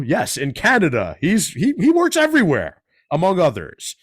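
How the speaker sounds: energetic radio guest introduction; host's bio read. Real, not acted. Host introducing a guest to listeners, announcer-style read. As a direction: read a résumé aloud with lively asides.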